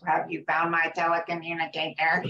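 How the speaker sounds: lightly imitated child's robot voice; a hint of a kid playing robot. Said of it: "he loved talking robot voice".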